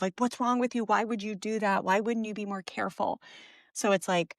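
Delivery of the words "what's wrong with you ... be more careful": understated knee-jerk reproach; mild retold scolding. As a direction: imitate a scolding parent, lightly. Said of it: "scolding, raising your voice".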